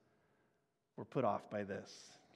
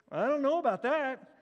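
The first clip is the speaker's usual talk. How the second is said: higher, louder "I don't know about that" as a mock outcry; loud disbelief; 9 semitones higher, 6 dB louder than usual. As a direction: raise "know" in indignant doubt. Crowd doubting, second take.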